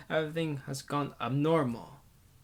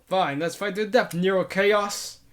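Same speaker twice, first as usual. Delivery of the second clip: louder, higher defiant call, slowing on the name; battle challenge; 5 semitones higher, 6 dB louder than usual. Acted. The narrator challenges Nero Chaos to a fight to the death, shouting. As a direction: throw down the challenge.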